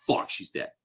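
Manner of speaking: whispered, deflated realization; stunned whisper. Retold or imitated. Fan realizing the heroine died, hushed whisper. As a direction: breathe it out in quiet shock. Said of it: "It's like".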